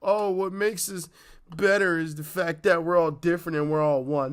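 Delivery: mock-inspirational recital; mock platitude. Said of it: "People don't wanna hear".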